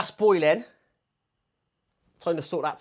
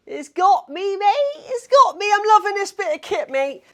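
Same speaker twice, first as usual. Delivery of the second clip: high, loud burst of excitement; excited delight; 10 dB louder than usual. Real, not acted. Vlogger thrilled the mic still picks him up, excited delight. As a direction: crow with delight, pitch way up.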